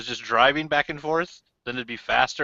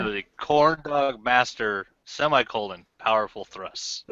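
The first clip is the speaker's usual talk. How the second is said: announcing; slower than usual. Pretend. Announcing a show title.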